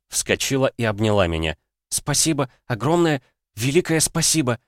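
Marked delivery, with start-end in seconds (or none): 1.9-4.6 высоко и восторженно; захлёбываясь от счастья благодарить; счастливая благодарность. A narrator's reading. Обнимает от счастья. (восторженно, высоким голосом)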